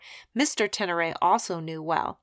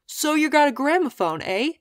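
loud, raised, friendly call; kindly calling down; 7 semitones higher, 6 dB louder than usual. A narrator's reading. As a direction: call it down to someone below, pitched up. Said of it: "he cawed down kindly".

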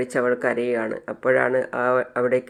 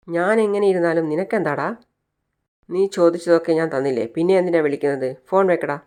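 irritated retort; 3 semitones higher, 3 dB louder than usual. Retold or imitated. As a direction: brush off the caller with mild irritation. Aarathi snaps at caller on phone. (നീരസത്തോടെ ചെറിയ ദേഷ്യം)

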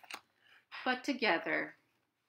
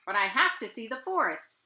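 Owl; 3 semitones higher, 6 dB louder, faster than usual. Acted. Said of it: "said Owl".

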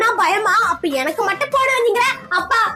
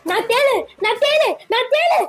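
mock scorpion. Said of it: "உன் நாடகத்தை நிறுத்து".

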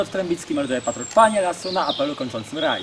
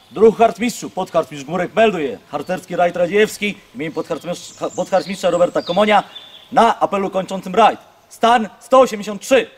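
parade report; 3 dB louder than usual. Real, not acted. Formal report at full voice.

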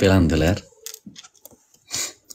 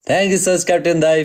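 bright, higher thank-you to the donor; excited thanks; 6 semitones higher than usual. Real, not acted. Streamer thanking Captain dai for a donation, excited. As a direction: gush a quick thanks.

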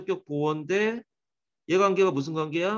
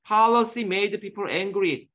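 "Policy" hit on po-, said slowly; stress on PO; 3 semitones higher, much slower than usual. Shown as a demonstration. Teacher modelling the stress for the class, slowly. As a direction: drag out the sentence, leaning on "Policy". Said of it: "액센트가 오에 있잖아".

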